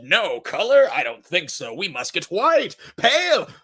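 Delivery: hammed-up director, high on pale; mock casting boss, stretching Game of Thrones slowly; mock James Gunn. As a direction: joke impression of the director. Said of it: "I doubt James Gunn said".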